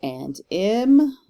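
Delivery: light "And", strong beat on "M"; iambic emphasis. Shown as a demonstration. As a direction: punch and hold the "M". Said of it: "read it with more emphasis".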